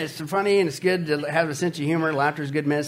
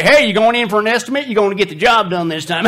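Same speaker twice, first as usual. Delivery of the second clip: sarcastic quip; 3 semitones higher, 4 dB louder than usual. Retold or imitated. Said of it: "don't say".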